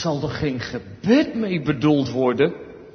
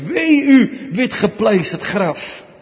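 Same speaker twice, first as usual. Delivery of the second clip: stern rebuke; 2 semitones higher, 6 dB louder, slower than usual. Acted. Jesus rebukes the Pharisees.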